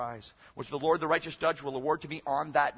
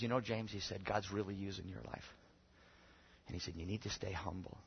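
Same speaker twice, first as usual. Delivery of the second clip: gentle mentor; 4 semitones lower, 10 dB quieter than usual. Retold or imitated. Mentor's kindly advice, retold softly.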